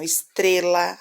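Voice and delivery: "estrela" with the syllable "tre" stressed; teacher stressing the middle syllable of "estrela". Shown as a demonstration. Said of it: "a mais forte é o tre".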